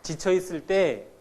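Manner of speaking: slow, voice catching with tears; slow tearful admission. Real, not acted. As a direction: let the tiredness choke the words slowly. Recalling exhaustion, crying heard.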